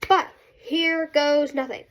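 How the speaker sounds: stuffy nose from a cold; congested cold voice. Real, not acted. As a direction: talk through a blocked nose. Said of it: "so I sound a little funky".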